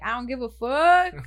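careless attitude. Retold or imitated. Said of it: "the type of person where it's like".

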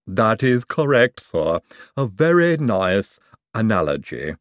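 lisping servant voice; Igor lisp voice. Acted. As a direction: bring the lisp back, obliging. Igor agrees.

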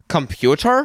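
high puzzled "Computer?"; confused high echo. Retold or imitated.

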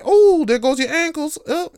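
high, loud gleeful taunting; mock kid trash-talking loudly. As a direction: crow over breaking his ankles. Kid trash-talking dad on court.

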